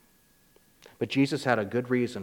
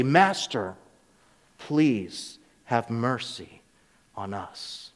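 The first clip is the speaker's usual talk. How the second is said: pleading; 2 semitones lower, much slower than usual. Acted. Lepers pleading from a distance.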